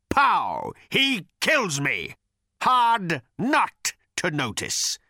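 high, slow, bellowing rage. A narrator's reading. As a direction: bellow out years of grievance. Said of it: "he bellowed".

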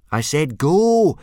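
loud, high, drawn-out command; frustrated repeat. A narrator's reading. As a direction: insist loudly, losing patience. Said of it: "Hiccup repeated in frustration".

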